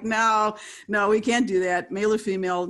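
loud imitation of a firm no; mock adamant refusal. Imitating executives refusing an androgynous character, mock adamant. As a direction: refuse loudly, as if it's unthinkable.

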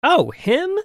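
put-on high, scornful girl's voice. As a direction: sneer it down at him. Girl's dismissive reply.

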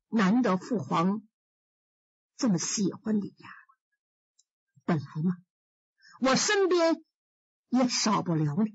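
lightly voiced sad emperor, measured; young emperor.

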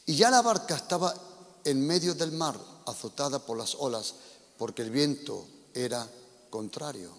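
a preacher reading the Gospel aloud, dramatic; scripture reading. Acted. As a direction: read the passage to the congregation with feeling. Preacher reads the Gospel passage. (lectura bíblica del predicador)

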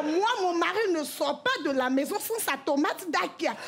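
high, chirpy market-woman banter; french café gossip. Pretend. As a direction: play two gossiping neighbours in a cheap ad. Parodies cheap tomato ad dialogue.

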